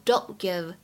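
"don't give" with the t of "don't" held, no burst; unreleased t. Shown as a demonstration. Teacher shows how fast speech changes it, "don't give" with unreleased t. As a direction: run "don't" into "give" without releasing the t. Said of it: "有一个完全失去爆破的现象".

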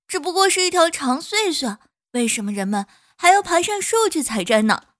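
loud, indignant flower voice; a flower griping about unfairness; complaining flower. Acted. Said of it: "泡桐花说".

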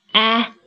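啊 with the mouth stretched wide; teacher modelling open 啊. Shown as a demonstration. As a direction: open up in all directions on 啊. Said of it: "尽量的张开、张大".

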